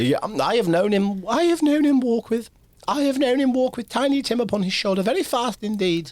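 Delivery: a fond mother remembering her son; Mrs Cratchit voice. Acted.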